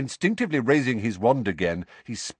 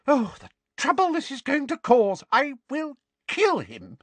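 put-on high, flustered old lady voice; a fretful, scolding old neighbour; fussy old woman; 10 semitones higher than usual. Voices fussing old neighbour Mrs Figg.

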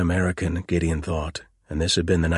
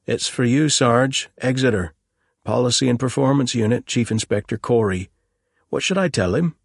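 put-on higher, eager young policeman; young constable voice; 7 semitones higher, 5 dB louder than usual. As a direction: play the keen young constable.

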